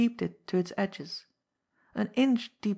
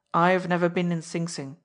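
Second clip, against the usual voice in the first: hardened; 5 dB louder than usual. Acted. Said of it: "His voice hardened suddenly".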